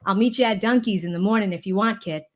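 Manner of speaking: lightly put-on Boston accent; casual, playful Boston accent. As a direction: talk like a Boston local. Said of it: "bring out my Boston accent".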